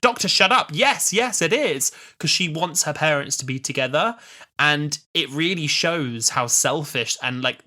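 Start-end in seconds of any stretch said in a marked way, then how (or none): 0.0-1.9 high, loud cut-in; acted River snapping at the Doctor; sharp River. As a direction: overrule him firmly. River overruling the Doctor, retold.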